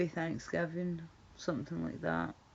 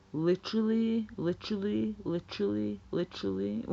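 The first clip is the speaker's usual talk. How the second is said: mock valley girl; 4 semitones higher than usual. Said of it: "say literally a lot".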